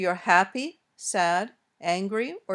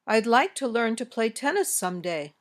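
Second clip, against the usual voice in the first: falling close on "someday"; statement intonation. Shown as a demonstration. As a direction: lift "tennis", then fall through "someday". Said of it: "Your voice goes up on an important word".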